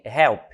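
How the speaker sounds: help with the h breathed out hard, like a Brazilian R; English h sound. Shown as a demonstration. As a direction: say help with a strong breathy h, the way Portuguese says R. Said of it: "H vai ter som de R".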